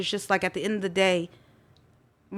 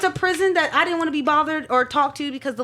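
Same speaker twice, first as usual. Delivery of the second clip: laughing through the story, higher; 6 semitones higher, 4 dB louder than usual. Real, not acted. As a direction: chuckle at how absurd it was. Laughs while telling.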